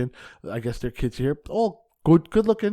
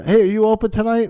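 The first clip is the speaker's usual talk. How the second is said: chirpy booker voice; 8 semitones higher, 8 dB louder than usual. Retold or imitated. Booker calling, voiced in story.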